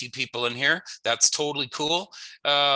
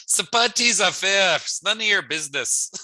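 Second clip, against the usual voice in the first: cheeky, a bit louder and higher; playful sass; 7 semitones higher, 4 dB louder than usual. Shown as a demonstration. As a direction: tease them: none of your business. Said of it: "Or you can say".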